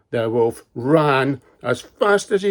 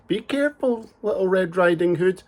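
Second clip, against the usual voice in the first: mum's warning; 6 semitones higher than usual. Acted. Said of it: "Mum said".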